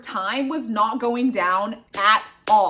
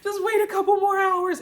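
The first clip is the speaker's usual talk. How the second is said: self-reassurance; 9 semitones higher than usual. Retold or imitated. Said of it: "I'm like".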